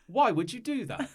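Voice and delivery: high-pitched wounded protest, slowing at the end; wounded schoolgirl. Acted. Hurt girl protests after an eraser hits her head, high wounded protest. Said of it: "then she clutches her head".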